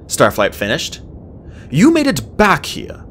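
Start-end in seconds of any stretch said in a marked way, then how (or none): 1.7-3.0 put-on young male dragon, curious. A narrator's reading. Starflight working out the mystery.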